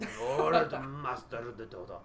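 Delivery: slow, lightly put-on Asian accent drifting British; a clumsy Asian accent with a British slip; mock Asian accent. Caster mimics a bearded pro player, slow clumsy Asian accent. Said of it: "Why did my Asian accent have a little British in it?".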